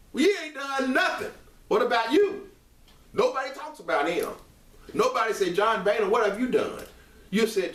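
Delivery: real worked-up rant, high-pitched. Real, not acted. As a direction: argue it hotly, pitch riding high. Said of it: "Let me calm down".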